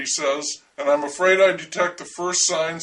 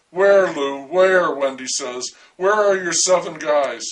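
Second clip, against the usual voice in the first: furious demand; 4 dB louder than usual. Acted.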